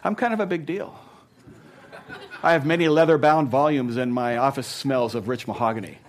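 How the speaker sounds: a light impression of a pompous anchorman; mock self-important bragging; Ron Burgundy. Preacher quotes a film big shot, lightly pompous. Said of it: "I'm thinking of Ron Burgundy here".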